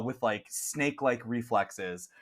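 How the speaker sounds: ordinary talk, nothing marked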